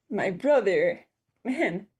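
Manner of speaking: fighting back tears mid-sentence; starting to cry. Real, not acted. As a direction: voice catching as real tears come. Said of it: "I'm crying".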